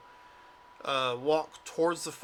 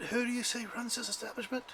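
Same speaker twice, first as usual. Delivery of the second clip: character voice; 7 semitones higher, 8 dB quieter than usual. Acted. GM voicing a character.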